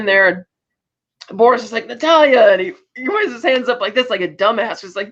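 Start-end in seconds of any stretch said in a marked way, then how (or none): 1.9-2.5 higher, louder exclamation; mock-excited cry of a name; retold excited call. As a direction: call the name out high and loud. Boris calls out in surprise.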